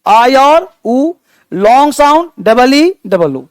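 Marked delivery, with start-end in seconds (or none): 0.0-1.1 आई और ऊ, each vowel held very slowly; drawn-out vowels. Shown as a demonstration. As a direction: stretch "आई" and "ऊ" long and slow. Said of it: "short ई". ("आई और ऊ" को बहुत धीरे खींचकर)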